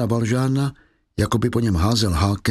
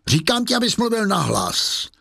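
higher, clipped demand; harsh insistence; 9 semitones higher than usual. Acted. Javert insisting Valjean speak aloud, harsh. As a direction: push the command with contempt.

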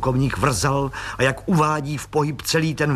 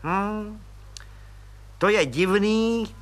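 high, eager voice of a fawning little clerk; fawning little policeman; 9 semitones higher, much slower than usual. Acted. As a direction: squeak up importantly like a nosy petty cop.

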